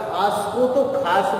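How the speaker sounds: खास said with final s; corrected pronunciation. Shown as a demonstration. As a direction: end खास cleanly on s. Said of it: "बोल देगा". (खास के अंत में "स")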